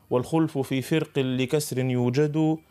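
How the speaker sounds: slow chanted line of the poem; recited verse. Shown as a demonstration. Teacher recites the poem for listeners, slow chant. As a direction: draw the verse out, intoning. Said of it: "ماذا يقول في منظومته".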